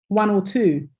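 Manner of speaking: "or" tucked lightly between stressed "one" and "two"; unstressed OR. Shown as a demonstration. Teacher showing students the weaker "or", unstressed in the middle. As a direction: lean on "one" and "two", reduce "or". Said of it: "not so stressed as the other two".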